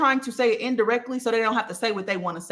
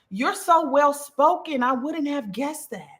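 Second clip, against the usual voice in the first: slow, sweetly drawn-out backhanded compliment; passive aggressive; 5 semitones higher, slower than usual. Acted. A coworker to Taja, slow passive aggressive. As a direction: praise that hides an insult, said slowly. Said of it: "example of somebody being passive aggressive".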